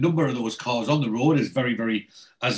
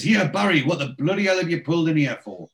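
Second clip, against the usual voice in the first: a hammed-up mild yell at a mate; mock shout; 5 semitones higher than usual. Bomber yelling at Barry's car, mild mock shout.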